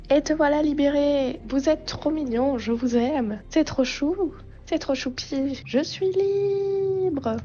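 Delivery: lifted little creature voice, delighted; high creature voice. Acted. Freed creature thanks its rescuer, high and delighted. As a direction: pitch up sweetly, stretch it out. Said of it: "j'en ai marre de faire une voix aiguë".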